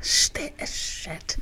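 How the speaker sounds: hushed unvoiced swear; whispered. Real, not acted. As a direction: breathe it out in disbelief. Reacting to song, voice drops.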